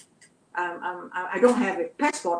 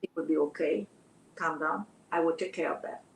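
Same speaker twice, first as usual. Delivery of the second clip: soft reassurance; 4 semitones lower, 5 dB quieter than usual. Retold or imitated. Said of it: "she told me to calm down".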